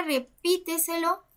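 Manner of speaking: repíteselo, leaning on the second syllable, pí; stress on the pí. Shown as a demonstration. Teacher shows a sobresdrújula word, stressed pí. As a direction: make pí stand out in repíteselo. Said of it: "antes de la antepenúltima sílaba".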